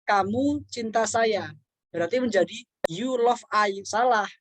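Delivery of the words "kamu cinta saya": slow example. Shown as a demonstration. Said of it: "Tapi kalau dibalik".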